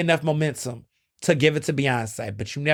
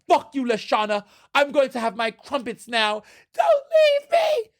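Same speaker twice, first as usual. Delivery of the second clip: high, hammed-up British reality-star squabble in a mock British accent; mock British cast member yelling at a castmate, in an over-the-top British accent; 11 semitones higher than usual. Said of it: "where they have the British accents".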